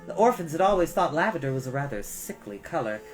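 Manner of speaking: usual speaking voice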